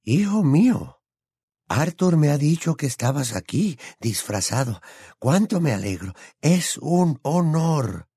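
put-on thrilled old wizard greeting a boy; delighted exclamation. A narrator's reading. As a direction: exclaim high, lingering on the final words. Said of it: "sofocó un grito y exclamó".

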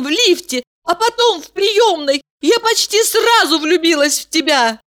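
put-on girl runs after him confessing love, high and pleading; crying out, pleading. A narrator's reading. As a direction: call out her love, urgent. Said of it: "кричала".

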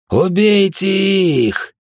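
slow, high, roaring order to kill; thunderous command. A narrator's reading. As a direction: bellow the order so the walls shake. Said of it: "от голоса, кажется, содрогнулись даже камни". (громовой приказ)

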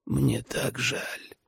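very slow, soft and high; faint dying whisper. A narrator's reading. Dying father's last apology, barely audible. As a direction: let each word drain away. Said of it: "прошептал Рэй едва слышно".

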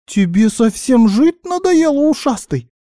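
high, squeaky outrage; indignant guinea pig. A narrator's reading. Guinea pig grabbed by the elf, indignant squeak. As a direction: squeal it as an offended threat. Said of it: "возмутилась Винни".

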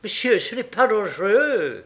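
put-on a French question in a strong English accent. English lady asking the guard, a strong English accent. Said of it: "avec un fort accent".

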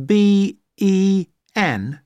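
slow, letter by letter; spelling it out. Shown as a demonstration. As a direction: spell each letter slowly. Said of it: "Do you spell that".

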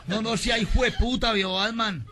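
loud, drawn-out comic outrage; indignant. Acted. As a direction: protest slowly and loudly, mock offended. Robin indignado rechaza a Batman. (indignado, a voz en cuello)

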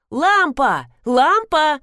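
high, urgent calling; crying out. A narrator's reading. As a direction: call someone urgently from another room. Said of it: "закричала Роза Леопольдовна".

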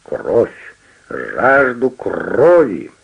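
movie vampire voice from beyond the grave; sepulchral voice. Acted. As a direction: intone it like a film vampire at a party. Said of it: "загробным голосом произнёс".

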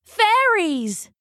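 high, breathless gasp of wonder; gasped in awe. Acted. Loosemore sees the glowing fairies, awestruck gasp. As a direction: let the word catch in surprise. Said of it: "he gasped".

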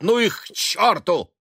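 loud angry yell, pitch jumping up. A narrator's reading. Son yelling at his mother to clear off. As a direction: bellow it at them in a rage. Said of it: "завопил он".

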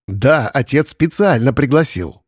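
slow, deliberate «Да, отец специально пригласил»; emphatic. A narrator's reading. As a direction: press each word of «Да, отец специально пригласил». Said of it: "с нажимом произнёс Антон". (с нажимом, медленно: «Да, отец специально пригласил»)

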